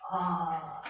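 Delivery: ordinary talk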